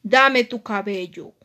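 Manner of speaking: lightly menacing, demand it slowly; bad mermaid. Evil mermaid agrees to take the hair, menacing. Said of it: "la sirena mala le dijo".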